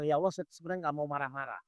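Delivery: low, soft confession to God; confessing prayer. Acted. Ustadz models a mother confessing to Allah, humble and soft. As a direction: confess it privately, dropping the voice. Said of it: "Ibu langsung bilang".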